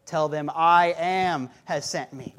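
a hint of God's booming answer; lightly voiced God. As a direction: speak as God, weighty and slow. Voicing God to Moses.

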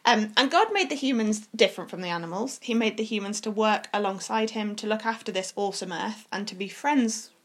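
gentle fireside storytelling. Acted. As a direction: tell it like a bedtime tale. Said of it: "I like your storytelling voice".

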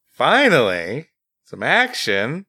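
slow, stretched-out exclamation after a sigh; exasperated, lingering delivery; drawn-out relief. Real, not acted. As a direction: savor each word slowly. Mock satisfaction at a bad ending.

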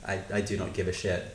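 soft, unbothered mock deadpan; indifferent guard. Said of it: "security personnel are just like".

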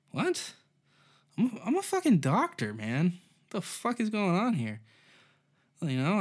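high-pitched outraged customer; hammed-up high indignant rant; indignant Indian doctor. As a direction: squeak out your offended disbelief at the store. Indignant doctor voiced in bit.

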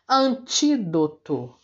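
antídoto slowed, tí strongest; slow teacher's demo of antídoto; stress on TÍ. Shown as a demonstration. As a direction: sound out antídoto, leaning on the second syllable. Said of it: "a antepenúltima sílaba".

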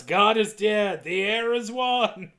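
slow, stretched mock proclamation; mild hammed-up cult proclamation; retold shout. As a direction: declaim it slowly without really shouting. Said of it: "The husband shouts".

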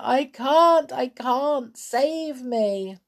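high, desperate repeated cry; frightened high whine; pleading wail. A narrator's reading. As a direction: wail for rescue, fading at the end. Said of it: "wailed Sailor".

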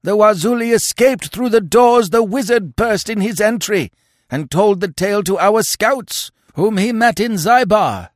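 sustained high, loud tirade; hateful, accusing yell. Acted. Warriors accuse Conan of betraying them, yelling with hate. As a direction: pour out the charge at full pitch. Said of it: "A yell of hate and accusation".

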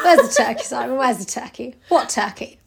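Peep Show quote. Retold or imitated. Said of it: "Peep Show Christmas special".

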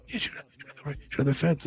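imitating a commentator dropping to a hush; mock hushed voice. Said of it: "brings his voice down to whisper".

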